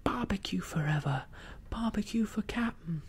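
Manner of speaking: acclaim your captain, voice climbing; pirates' acclaim. A narrator's reading. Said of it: "they cried".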